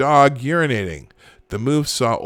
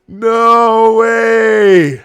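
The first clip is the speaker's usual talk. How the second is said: high, loud disbelieving no way; amazed outburst; 8 semitones higher, 10 dB louder than usual. Real, not acted. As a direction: exclaim it in shock. Reacting to penalty video.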